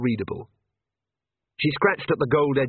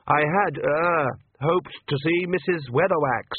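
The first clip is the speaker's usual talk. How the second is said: higher, hesitant priest voice; nervous young priest; 4 semitones higher, slower than usual. Acted. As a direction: stumble politely, a bit anxious.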